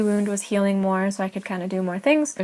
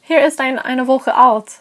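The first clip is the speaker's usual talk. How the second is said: higher, louder retold reply; lightly acted flustered explanation in German; hasty protest; 4 semitones higher, 7 dB louder than usual. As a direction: protest to calm an alarmed listener. Retold reply reassuring alarmed pharmacist.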